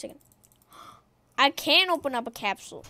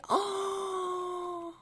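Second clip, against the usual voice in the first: long soft gasp; 5 semitones higher, 11 dB quieter than usual. Real, not acted. Reacts to being targeted.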